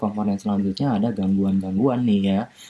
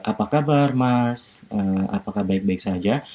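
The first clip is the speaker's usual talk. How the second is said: lightly voiced gentle politeness; gentle polite greeting. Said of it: "menggunakan bahasa yang lembut".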